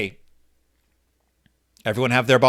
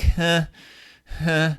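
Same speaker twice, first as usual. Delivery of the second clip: muttered huh; 3 semitones higher than usual. Shown as a demonstration. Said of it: "make this sound like".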